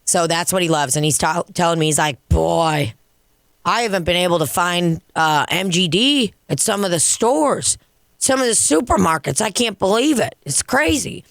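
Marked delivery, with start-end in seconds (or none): 2.3-11.2 imitating an old guy's complaint, pitch climbing; retold griping. Old regular complaining to bartender about his beer, retold griping. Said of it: "he's kinda bitching about it".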